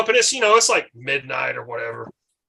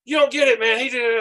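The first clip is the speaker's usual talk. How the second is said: higher, louder insisting mock voice; Randy Savage; 7 semitones higher, 3 dB louder than usual. Randy Savage arguing with the cops, higher. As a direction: insist hard, voice up. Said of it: "And he's like".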